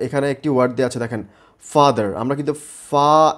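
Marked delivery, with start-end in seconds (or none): 2.9-3.3 ফা drawn out on its own; separate syllable. Shown as a demonstration. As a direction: hold ফা as a syllable apart from দার. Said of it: "আলাদা উচ্চারণ করতে হচ্ছে". (ফা আলাদা করে টেনে)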